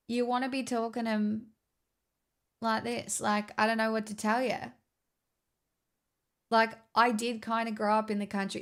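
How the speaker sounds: broad outback Aussie accent; bogan accent. Shown as a demonstration. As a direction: talk broad bogan, like country family.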